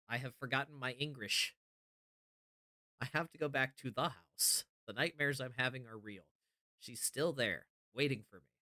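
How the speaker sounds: earnest, hushed letter reading. Acted. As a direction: read the note like a confession. Reads a note from John aloud.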